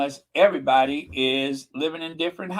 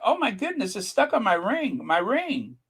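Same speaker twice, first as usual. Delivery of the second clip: fake surprise; 6 semitones higher than usual. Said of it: "you pretend like".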